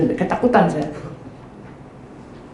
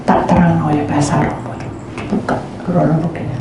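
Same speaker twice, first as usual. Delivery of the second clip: ordinary talk, nothing marked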